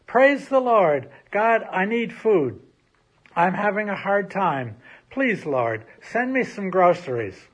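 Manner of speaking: loud, high pleading call to God; shouting prayer. Acted. Old lady begging God for food, loud shouting. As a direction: cry out for help from the porch. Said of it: "She stood on her porch and shouted".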